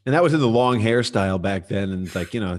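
ordinary talk

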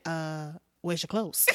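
low, soft, hesitant question; awkward teen boy. Acted. Boy facing his undressed girlfriend, awkwardly puzzled. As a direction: ask it with mild puzzlement, underplayed. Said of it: "Okay, this boy's different".

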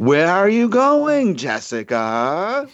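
put-on high, loud, slow Scottish accent; a Scottish accent stretched out with slow vowels. Scottish accent, aping David Tennant in a film. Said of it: "David Tennant doing his actual Scottish accent".

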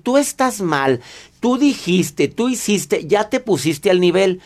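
imitated blaming; mock accusing. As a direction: throw each accusation out in short bursts. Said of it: "si te pones a decir".

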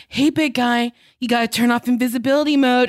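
lightly imitated coaxing baby talk; a touch of baby talk; mock baby talk. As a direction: coax a big brute as if talking to a toddler. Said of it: "this weird baby talk".

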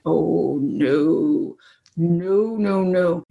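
low, drawn-out mock dread; sinking reluctance, played lightly; retold dread. Woman asked to present for the first time, mock dread.

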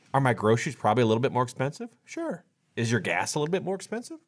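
mock shrug at rising prices; shrugging self-talk. Retiree weighing costs to himself, dismissive shrug.

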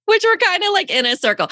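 put-on high, giggly Valley Girl accent. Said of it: "it's my Valley Girl accent".

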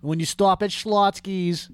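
lightly voiced old Jewish woman accent, drawn out; a hint of a New York Jewish grandmother giving orders. Friend doing a light Jewish impression for a sandwich order. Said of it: "besides Jewish impressions".

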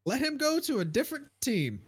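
fired-up insistence; emphatic repeat. Real, not acted. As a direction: hammer the demand home.

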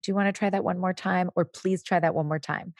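mildly prompting, voice kept down; without yelling. Acted. Parent prompting a demanding child to say please, calm. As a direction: calmly invite another attempt. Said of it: "you don't need to yell at them. You just say".

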